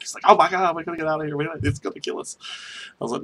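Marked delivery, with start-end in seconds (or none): 0.3-2.4 high-pitched imitation of a panicking friend; retold freaking out. Coworker in the truck fears the boar, panicking. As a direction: mimic your buddy freaking out. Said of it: "Tom was just freaking out".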